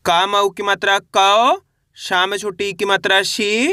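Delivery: syllable drill, कौ and शी each stretched upward; spelling out aloud. Shown as a demonstration. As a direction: spell each part, ending on a long rising कौ, then शी. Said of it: "अब उच्चारण किस तरीके से करेंगे चलिए देखिए".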